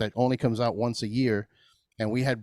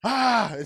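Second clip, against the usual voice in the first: dazed groan; 10 semitones higher than usual. Retold or imitated. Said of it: "everything's vibrating".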